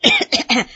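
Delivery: awkward throat-clearing coughs; 干咳两声; two nervous coughs. A narrator's reading. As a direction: cough twice to buy time. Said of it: "叶永安紧咳嗽了两声".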